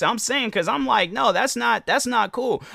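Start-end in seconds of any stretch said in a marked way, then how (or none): 1.1-2.6 firm objection. Retold or imitated. Imagined reply to airport staff.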